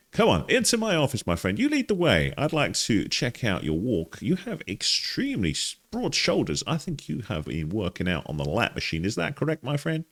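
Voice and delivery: put-on high, playful Russian-accented therapist; slight Russian accent. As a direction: usher a patient in with mock Russian accent. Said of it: "interesting slight Russian accent".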